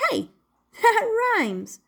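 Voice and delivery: high, slow laughing puppet; delighted laugh. Acted. Puppet discovering his words rhyme, laughing.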